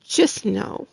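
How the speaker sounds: choked up and quiet; holding back tears while speaking; real tears welling, voice dropping low; emotional. Real, not acted. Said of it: "I get emotional".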